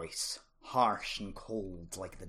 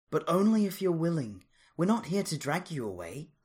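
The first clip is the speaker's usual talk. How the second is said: lightly; 7 semitones higher, 4 dB louder than usual. A narrator's reading. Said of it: "she added lightly".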